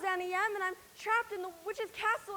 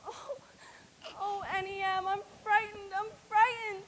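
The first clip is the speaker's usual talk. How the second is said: trembling sobs; frightened crying. Acted. Dorothy alone in the castle, crying in fear. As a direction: cry out in fear.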